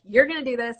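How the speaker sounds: mildly emphatic, lifted pitch; all-caps pep talk. Retold or imitated. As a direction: imitate an insistent written pep talk. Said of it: "you use all caps".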